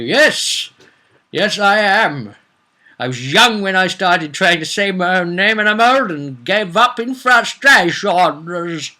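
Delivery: lightly voiced ancient god; mock weary god. Answering as the long-named god.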